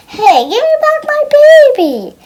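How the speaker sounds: high, pleading cry to get it back; urgent protest. Pretend. Child demanding her baby doll back, high squeal.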